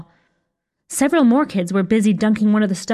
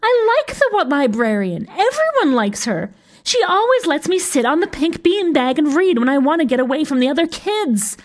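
put-on high, plaintive girl's voice; wailing; 8 semitones higher than usual. A narrator's reading. Upset girl defends her favourite librarian, wailing. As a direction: plead in a high wail. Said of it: "wailed Pink".

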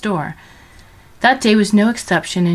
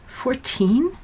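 shocked echo; 8 semitones higher than usual. A narrator's reading. Georgina shocked at years taken.

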